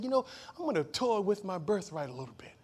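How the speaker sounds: unvoiced hush of a tempting thought; whispered temptation. Joseph's imagined thought of toying with birthright, whispered. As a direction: whisper it like a guilty secret.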